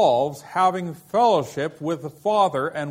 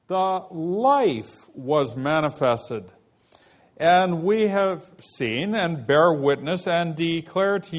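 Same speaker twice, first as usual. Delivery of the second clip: scripture reading. Acted. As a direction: read the verse out deliberately. Reads scripture passage aloud.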